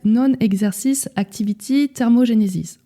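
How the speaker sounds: a French speaker's plain English accent on the term. Shown as a demonstration. Coach reading an English term to viewers, mild English accent. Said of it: "mon accent anglais".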